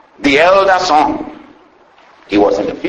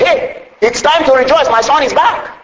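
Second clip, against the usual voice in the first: higher, lightly excited retelling; retold rejoicing; 8 semitones higher than usual. Servants telling the elder brother, mild excited retelling. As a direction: pass on the father's glad news.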